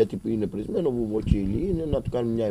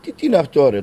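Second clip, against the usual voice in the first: much higher, much louder furious yell; furious shout; 5 semitones higher, 9 dB louder than usual. Retold or imitated. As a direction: yell at the doctor in outrage. Father shouts at the doctor. (έξαλλη φωνή στον γιατρό)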